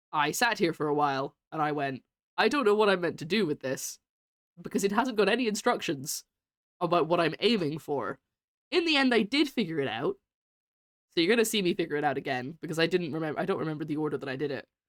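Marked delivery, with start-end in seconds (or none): none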